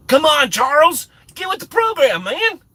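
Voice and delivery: high, loud mock scolding; mock exasperation. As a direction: pitch it way up, chiding a viewer playfully. Teasing a viewer called Charles.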